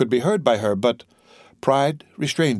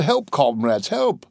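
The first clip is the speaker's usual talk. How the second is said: high, stammered cry for help; alarmed call for help; 3 semitones higher, slower than usual. Acted. Gendarme calls comrades as prisoner leaps, alarmed cry. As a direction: pitch leaps up, no real shout.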